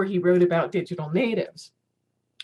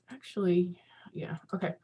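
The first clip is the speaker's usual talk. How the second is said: whisper; 6 dB quieter than usual. Real, not acted. Muttering aside while arranging screen.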